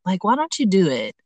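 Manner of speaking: gently acted coaxing voice in the head; tiny inner voice. Woman voices self-belief urging a risk, tiny inner voice. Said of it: "that tiny little voice".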